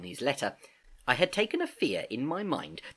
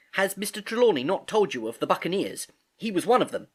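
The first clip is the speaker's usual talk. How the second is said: put-on young boy voice; 7 semitones higher than usual. A narrator's reading. Jim speaks.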